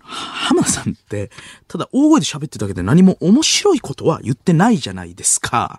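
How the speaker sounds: lightly imitated know-it-all debater; Hiroyuki needling. Debater belittling a comedian on a variety show, needling impression. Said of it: "ひろゆきさんと浜田さんが".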